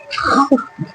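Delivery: short, soft, high chuckle; scoffing laugh. Real, not acted. Preacher after shaming the rival pastor, soft scoffing chuckle. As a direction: give a quick quiet snicker.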